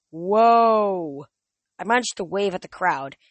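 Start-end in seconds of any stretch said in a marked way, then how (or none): 0.1-1.2 amazed. A narrator's reading. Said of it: "A whole bunch of tourists went".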